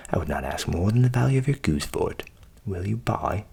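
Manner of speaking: low voiced sly grinder; low, coaxing grinder.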